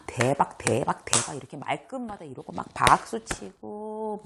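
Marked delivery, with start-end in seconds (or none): 0.0-1.4 hammed-up astonishment; exaggerated gasp. Shown as a demonstration. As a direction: overact your amazement. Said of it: "너무 과도한 감탄".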